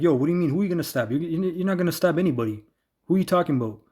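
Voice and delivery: half-hearted mock squaring up; imitated confrontation. Preacher replaying his old self facing the stranger, mildly heated. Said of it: "my old self, I was gonna be like".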